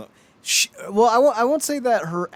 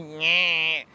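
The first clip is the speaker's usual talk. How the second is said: nasal Fran Drescher imitation; 2 semitones higher than usual. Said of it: "That nasally".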